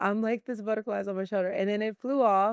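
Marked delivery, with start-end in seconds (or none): 0.4-1.5 fast, excited, acted-out freak-out rush. Retelling a butterfly landing on the speaker's shoulder, re-enacting freaking out. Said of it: "And I'm freaking out".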